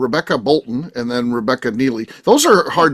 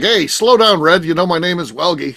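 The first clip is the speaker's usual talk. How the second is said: cocky mock telling-off, pitched up; overfamiliar correction; 3 semitones higher, 3 dB louder than usual. Co-host imagining guest getting too comfortable with host, cheeky. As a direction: call it out loud and too comfortable. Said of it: "got so comfortable".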